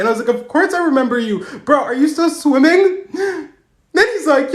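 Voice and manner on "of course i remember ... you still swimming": high, loud gushing; eager greeting. Retold or imitated. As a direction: gush it, stretching the final question. Enthusiastic reply to old teammate.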